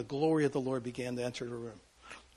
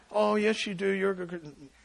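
mock reassurance; 4 semitones higher than usual. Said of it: "no amount of back patting".

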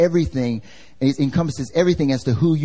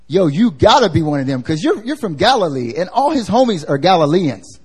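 street-slang call-out with swooping pitch; accusing bystander; 3 semitones higher than usual. Retold or imitated. Bystander telling Peter he's from Galilee, insistent call-out. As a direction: call him out with lively, insistent emphasis.

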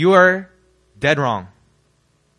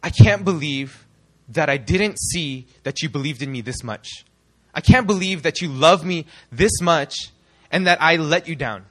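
moved disbelief. Retold or imitated. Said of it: "That was the".

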